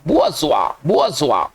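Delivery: बुआजुआ repeated as bu-a-zwa, each falling; teacher's repeat of बुआजुआ, bu-a-zwa; pronunciation demo. Shown as a demonstration. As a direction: drill बुआजुआ with the extra "a" after "bu". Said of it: "उच्चारण यहाँ लिखा है".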